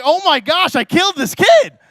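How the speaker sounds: high, loud mock panic; panicked shock. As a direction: realize in horror what happened. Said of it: "I'm like".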